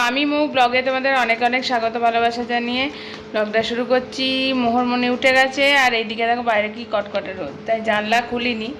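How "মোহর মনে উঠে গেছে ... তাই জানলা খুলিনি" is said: usual speaking voice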